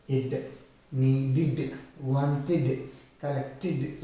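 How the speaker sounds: slow IT, then NEEDED, WANTED, COLLECTED ending in "id"; needed, wanted, collected with careful "id" suffix; suffix sound demo. Shown as a demonstration. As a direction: separate each word and mark the id ending. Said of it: "like that you will have it".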